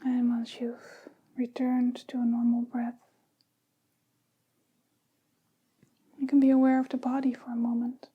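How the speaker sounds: unhurried meditation guidance with long pauses; guided meditation. Real, not acted. Teacher leading listeners into breathing and body awareness, calm meditation guidance. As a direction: ease them gently into the practice, phrase by phrase.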